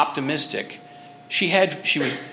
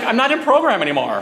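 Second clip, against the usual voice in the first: laughing retelling; 10 semitones higher, 5 dB louder than usual. Retold or imitated. Retold sponsor, storyteller laughing.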